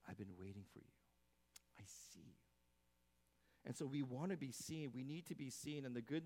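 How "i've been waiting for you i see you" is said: soft, low and tender; tender welcome. Acted. God welcoming the returning sinner, soft and tender. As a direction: ease it out gently, welcoming. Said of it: "And what God does is".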